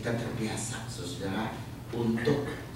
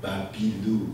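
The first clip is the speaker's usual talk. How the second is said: laughing quote; 3 dB louder, slower than usual. Retold or imitated. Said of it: "katanya gitu ya".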